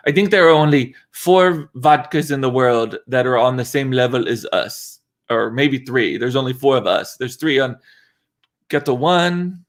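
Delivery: lightly put-on French accent. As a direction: imitate a French CEO with a slight French accent. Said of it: "That's my French accent".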